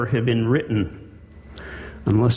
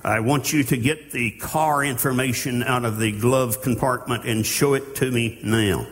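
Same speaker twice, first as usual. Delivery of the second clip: firm, commanding traffic cop; authoritative officer. Pretend. Preacher voicing a police officer demanding a license, firm. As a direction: order the driver like a stern cop. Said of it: "Now he's speaking with the authority".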